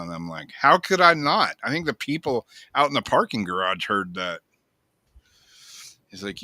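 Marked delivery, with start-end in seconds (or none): 0.5-4.4 higher and louder, incredulous at first; disbelieving comeback to the nurse; mock disbelief, easing off at the end; incredulous retort. Telling the nurse the scream was loud.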